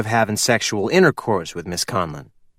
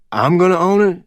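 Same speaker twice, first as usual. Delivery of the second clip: can't quite believe his luck, eager; excited but unsure; nervous excitement; 6 semitones higher than usual. Acted. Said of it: "Nervous excitement in his voice".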